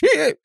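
a high sharp hiccup cutting in. Acted. Shaman's outrage cut by a high hiccup. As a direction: hiccup loudly.

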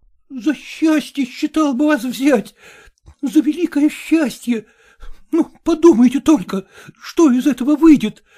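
weeping. Acted. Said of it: "плакал и говорил".

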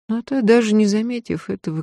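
ordinary delivery

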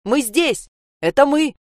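put-on boy shouting through the door to the mother. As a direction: call out eagerly through the door. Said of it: "кричал сквозь дверь".

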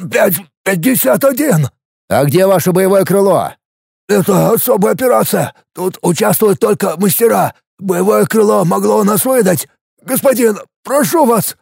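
high, panicky babbling prisoner; pleading fat captive. A narrator's reading. Fat adept begs Alex not to kill him, high and panicky. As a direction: beg for mercy, words tumbling out.

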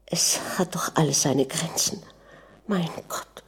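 soft unvoiced despairing whisper; a shaken wife whispering alone, hushed. A narrator's reading. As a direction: breathe it out to herself. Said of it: "und flüsterte".

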